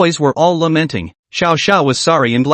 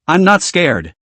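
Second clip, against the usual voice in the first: muffled, half-swallowed words; slower than usual. Acted. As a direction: speak as if into a sleeve. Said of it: "replied in a muffled voice".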